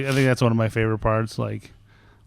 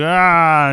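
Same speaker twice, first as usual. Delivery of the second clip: loud, raised imitation roar; half-serious smashing yell; mock Hulk yell; 5 semitones higher, 5 dB louder than usual.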